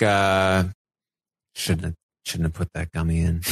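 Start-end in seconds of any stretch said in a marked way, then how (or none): 1.6-3.4 low, soft grumble, imitating a chill houseguest; underplay the outburst, quieter and lower; barely fired-up imitation. Quiet houseguest regretting his gummy move, barely fired up. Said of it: "the most fired up he got was like".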